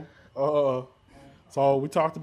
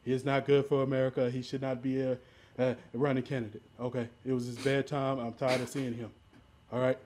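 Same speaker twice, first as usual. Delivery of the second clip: lightly voiced insistent politician; Donald Trump. Cutting in to run down Joe Biden, light Trump impression. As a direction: talk over them as a blustering candidate, lightly put on. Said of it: "I'm doing Trump".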